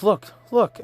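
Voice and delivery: high-pitched, eager call to look; excited urging. Retold or imitated. Acting her pointing outside.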